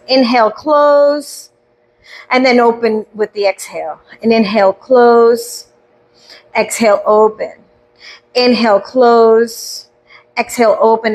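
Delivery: guided breathwork, word by word; breathing cues. Shown as a demonstration. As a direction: draw out each cue to pace their breathing.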